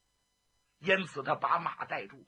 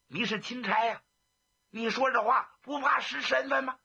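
indignant scolding; 5 semitones higher than usual. Acted. Jiang Ping rebukes the magistrate for mourning Lao Wu, angry. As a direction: scold him for cursing his friend.

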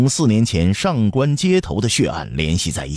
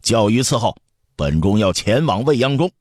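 mild calling out; 5 semitones higher than usual. Acted. Prince orders attendants outside, calling out mildly. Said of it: "继续朝外面喊道".

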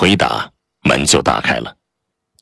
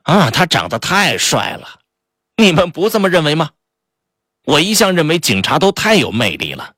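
high, gushing, swooning; shrill, fluttery admiration; 8 semitones higher than usual. Acted. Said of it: "克里斯多夫·雷恩又尖声说".

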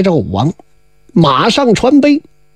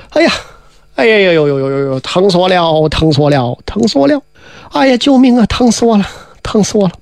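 groaning moans that rise and fall in pain; pained crying out; 3 semitones lower than usual. Acted. A woman in the grass moaning for help in pain. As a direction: cry out as if in agony, pleading. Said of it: "越喊这个声越凄惨".

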